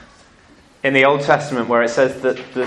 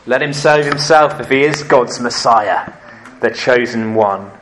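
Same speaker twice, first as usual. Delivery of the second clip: sneering; 3 dB louder than usual. Acted. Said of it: "the rulers there sneered at him".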